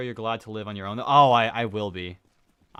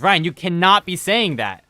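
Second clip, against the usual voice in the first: louder, higher retold disbelief; shocked coworker; 6 semitones higher, 9 dB louder than usual. Coworker reacts to Ryan's word in higher, louder disbelief. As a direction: play the coworker gasping at a bad word.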